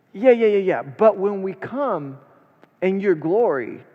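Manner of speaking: breezy mock dismissal; dismissive brush-off. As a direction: wave him off like bored followers. Disciples' dismissive reply voiced.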